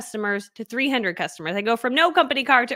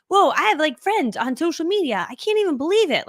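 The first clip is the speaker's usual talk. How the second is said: retold shock; 5 semitones higher than usual. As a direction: replay her disbelief at finding friends online. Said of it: "I was, like, shocked".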